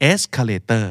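"Escalator" with ES stressed, -tor light; unstressed final syllable. Shown as a demonstration. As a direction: let the -tor in "Escalator" drop away unstressed. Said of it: "มันแทบจะไม่เคยถูกย้ำเลย".

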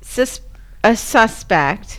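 tripping over the word, tipsy. Real, not acted. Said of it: "We're gonna Porky Pig this shit".

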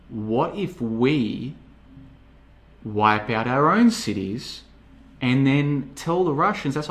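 drawn-out words with weighty pauses; slow, deliberate pitch. Acted. Aide pitches his plan to the room, very slowly. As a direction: unveil the idea slowly, piece by piece.

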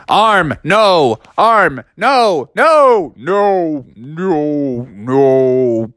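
plead, then collapse; mock despair. Robot being torn apart.

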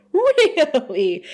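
high, stretched-out "Really?"; milk the word, high and exaggerated; drawn-out mock disbelief. Repeats his reply, exaggerated.

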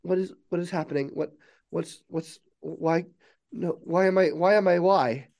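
acted existential panic, tripping over the words; panicked confusion. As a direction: build from dazed to frantic. Newly awakened AI panics in confusion.

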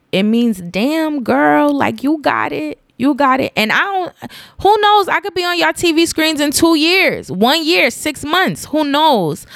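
real happy tears over a hundredth episode; crying on air. Real, not acted. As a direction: cry through the words, still cheering yourself on. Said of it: "Look at me crying on air".

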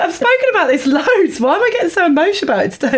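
mock your own emotions, laughing; laughing self-quote. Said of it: "It's like".

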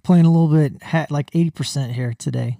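slurred, numb mouth; talking with half the face numb; numb from the dentist. Real, not acted. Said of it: "Can't feel half my face".

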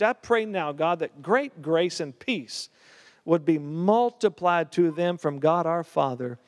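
slow, reverent prayer to the Father; closing prayer. Acted. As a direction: bless the listeners, slowly. Closing prayer over congregation.

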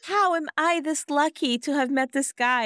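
high, dreamy imitation; mock smitten gushing. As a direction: gush as the oblivious lucky girl. Voices the oblivious, smitten woman.

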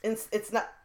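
speaking through hiccups; hiccuping mid-sentence. Real, not acted. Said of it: "I have the hiccups".

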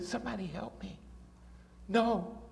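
high, pleading imitation of a screaming wife; mock scream for help, held back in loudness; retold scream. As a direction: plead desperately up high, without real volume. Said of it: "she was screaming".

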